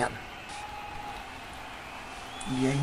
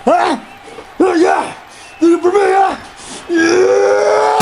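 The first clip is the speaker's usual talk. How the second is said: excited cheering; slower than usual. Acted. Cheering the brawl.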